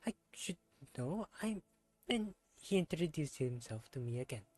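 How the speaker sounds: put-on reading the character's lines in a self-admitted terrible French accent. Streamer voicing a game character, bad French accent. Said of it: "my terrible French accent".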